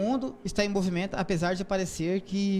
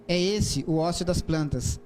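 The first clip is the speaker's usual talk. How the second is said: haiku reading; slower than usual. Shown as a demonstration. Reads haiku aloud.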